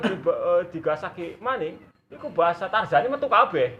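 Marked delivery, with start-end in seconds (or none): 2.1-3.8 laughing. Real, not acted. Laughing telling the teasing story.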